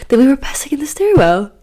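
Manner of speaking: breathless hushed outrage; voiceless gossip whisper; scandalised whisper. Real, not acted. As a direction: whisper the shocking part. Scandalised aside.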